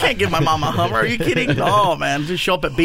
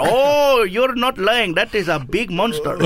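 high, louder burst of amazement, then slowing into a laugh; amazed clerk; 5 semitones higher, 3 dB louder, much slower than usual. Retold or imitated. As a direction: act out the clerk gawking at the huge car. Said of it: "I go".

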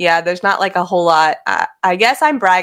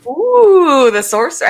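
excited; 9 semitones higher, 5 dB louder, slower than usual. Real, not acted. Reacting to sorcerer choice.

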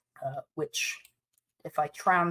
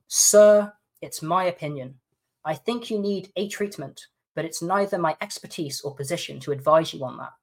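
lightly mocking the lawyer.

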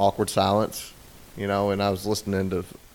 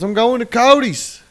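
put-on much higher, louder, slow childish retort; mock defiant husband; 12 semitones higher, 6 dB louder than usual. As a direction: drag it out like a stubborn kid. Husband answers wife defiantly.

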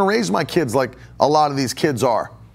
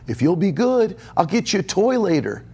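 put-on higher, sing-song bribe to a child; mock bribing parent; 4 semitones higher than usual. Parent bribing a child with a toy, mock coaxing. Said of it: "I hear parents parent like that".

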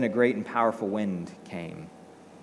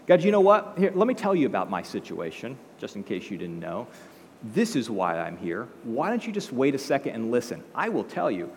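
mock lecturing, talking down to God. Elijah explaining himself to God, mildly condescending. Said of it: "He begins to lecture God".

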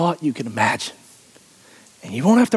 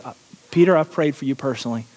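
casual aside; 4 semitones lower, faster than usual. Shown as a demonstration. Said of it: "What is Jesus doing when he says".

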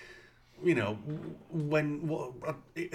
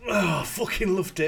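mock Kincaid glee; 6 semitones higher, 5 dB louder than usual. S1 continues Kincaid voice.

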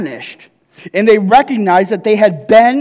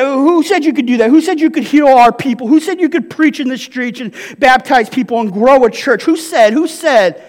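indignant leaders; 2 semitones higher than usual. Retold or imitated. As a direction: demand it like offended gatekeepers. Voicing the indignant religious leaders.

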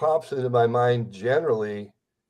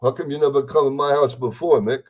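louder, wounded Rocky asking Mick; lightly voiced hurt boxer, louder; 6 dB louder than usual. Impersonator quotes Rocky's hurt line to the host, louder. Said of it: "he goes".

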